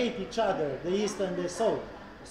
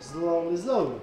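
gentle slowly; 5 semitones lower than usual. Shown as a demonstration. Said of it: "How you say it?".

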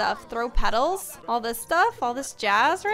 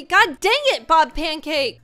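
loud, higher playful yell; hammed-up shout at Bob Pancakes; mock yell; 4 semitones higher, 7 dB louder, slower than usual. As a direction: yell at the pest in hammed-up outrage. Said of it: "More choices mean yell at".

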